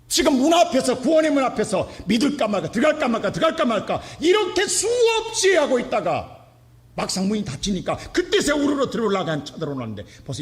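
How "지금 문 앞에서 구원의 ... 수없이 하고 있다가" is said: preaching at full force. Acted. Pastor urging hearers at the gate of salvation. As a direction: drive it home to the congregation.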